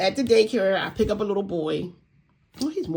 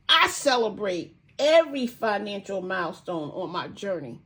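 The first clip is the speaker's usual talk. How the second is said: affirmation. Shown as a demonstration. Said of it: "The affirmation is".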